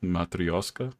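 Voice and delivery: "Matryoshka" said as mah-tree-OSH-ka, rising at the end; careful pronunciation. Shown as a demonstration. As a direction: spell out "Matryoshka" slowly for a friend. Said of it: "How do you say that?".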